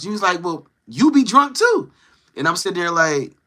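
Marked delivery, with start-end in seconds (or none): 0.4-1.9 high, slow mock retort; mimicked comeback, stretched out and high; imitating defensive retort. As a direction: throw the accusation back, pitched up. Acts out his defensive retort.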